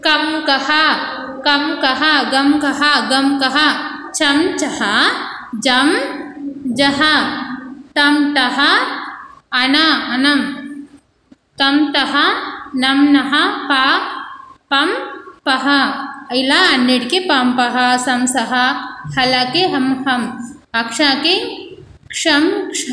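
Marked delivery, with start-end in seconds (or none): 0.1-15.7 chant-like pairs such as "కం కహ", the second ending in an open "ha"; visarga pronunciation drill. Shown as a demonstration. Teacher drills children on two-dot visarga sounds, demonstrating "కం కహ". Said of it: "దీన్ని ఏమని పలకాలి ఇప్పుడు". 22.1-22.8 "క్షం" held on the m, then "క్ష" released with a breathed "ha"; visarga pronunciation. Shown as a demonstration. Teacher shows children how to pronounce it, demonstrating "క్షం క్ష". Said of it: "అని పలకాలి".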